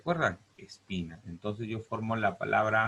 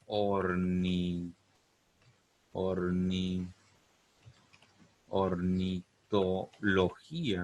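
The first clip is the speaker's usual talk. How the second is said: syllable by syllable; much slower than usual. Shown as a demonstration.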